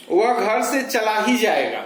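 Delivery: ही given a firm push before जाएगा; stress on ही. Shown as a demonstration. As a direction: lean on ही to sound certain. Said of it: "ही पर बालाघात है". (ही पर ज़ोर)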